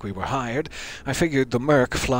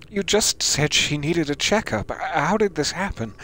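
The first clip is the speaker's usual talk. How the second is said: a lightly raised, pleading mother's voice; grieving mother; 5 semitones higher than usual. Acted. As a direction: protest like a mother in disbelief.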